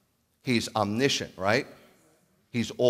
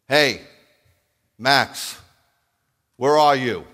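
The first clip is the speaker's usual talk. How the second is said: louder calling out the name; 2 semitones higher, 9 dB louder, slower than usual. Shown as a demonstration. Preacher demonstrating a loud shouted call to a dog. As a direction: call him like a dog you're summoning. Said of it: "Let me show you the difference".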